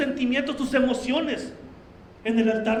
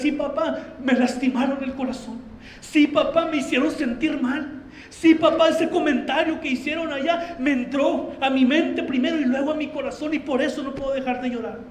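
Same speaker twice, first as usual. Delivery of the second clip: tearful plea to father. Pretend. Child praying to God in tears.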